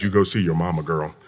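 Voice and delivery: soft, low, caring tone; quiet affectionate retold reassurance; gentle send-off. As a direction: tenderly give her permission to leave. Sending employee off, retold.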